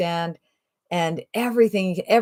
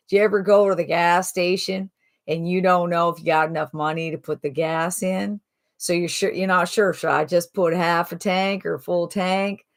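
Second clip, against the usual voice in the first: put-on Southern accent. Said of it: "thick Southern accent, kinda talks like this".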